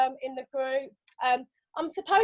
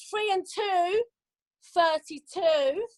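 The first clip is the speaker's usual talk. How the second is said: slow sing-song number calling; bingo caller; 3 semitones higher, slower than usual. Acted. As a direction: call each number drawn out.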